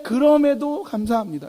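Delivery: 높은 음으로 힘주어 감사 고백; 서운함을 누르고 다짐하듯; 다짐하는 감사. Shown as a demonstration. 서운해도 감사하는 시범. (다짐하듯 힘주어)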